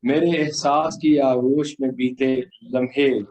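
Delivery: solemn, measured poem delivery; stately nazm recitation. Acted.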